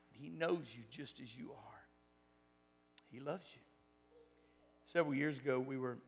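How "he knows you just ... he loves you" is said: soft whisper, words barely voiced; whispered comfort. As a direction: lean in and whisper it to one soul. Intimate turn after preaching climax.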